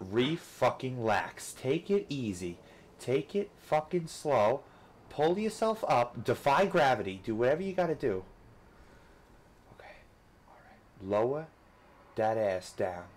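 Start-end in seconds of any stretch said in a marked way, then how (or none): 0.1-8.2 slow self-soothing. Real, not acted. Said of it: "coaching himself calmly".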